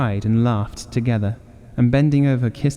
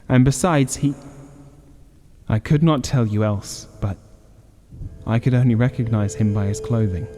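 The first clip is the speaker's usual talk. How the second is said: shaking voice. Acted. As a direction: voice shaking with dread. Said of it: "and his voice shook".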